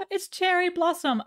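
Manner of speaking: gasp, then say it with real delight; a sudden thrilled gasp over a cute name. Real, not acted. Gasps at the horse name.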